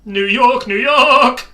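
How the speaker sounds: loud, high New York holler; New Yorker impression. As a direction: belt it like a proud New Yorker. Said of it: "If you wanna do an impression of a New Yorker".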